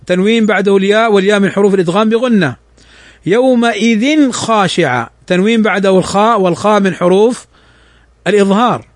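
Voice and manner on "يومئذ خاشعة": Quran recitation. Shown as a demonstration.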